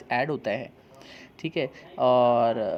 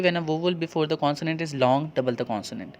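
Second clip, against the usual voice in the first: slow rule reading; much slower than usual. Shown as a demonstration. Reads rule aloud slowly.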